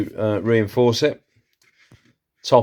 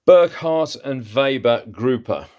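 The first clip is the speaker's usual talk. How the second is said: slow, higher, hammed-up German accent on the brand name; mock German accent; 4 semitones higher than usual. Seller reading out a German ruler maker's name in a mock German accent. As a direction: read the brand like a German comedy-sitcom actor, in a German accent. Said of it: "sound like one of the German actors".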